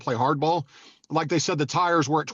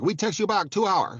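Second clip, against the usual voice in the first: slow, light mock Asian accent, a bit higher; 3 semitones higher than usual. Imitating Bob Sapp's assistants' texts in a slow mock Asian accent. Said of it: "their texts are in an Asian accent".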